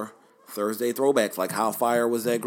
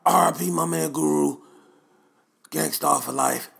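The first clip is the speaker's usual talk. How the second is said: loud, higher-pitched rough impression; badly imitated hip-hop producer; DJ Premier; 5 semitones higher, 5 dB louder than usual. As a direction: call it out in a bad producer impression. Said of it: "My D J Premier impression is like".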